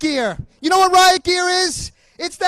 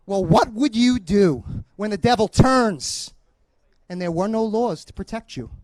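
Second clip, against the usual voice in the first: quoting Thomas More; 8 semitones lower, 5 dB quieter than usual. Retold or imitated.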